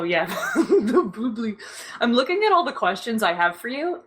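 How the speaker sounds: ordinary talk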